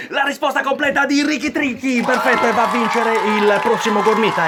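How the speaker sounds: loud laughing prize call; showy game show host. Acted. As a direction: hand out the prize, amused. (conduttore che ride premiando)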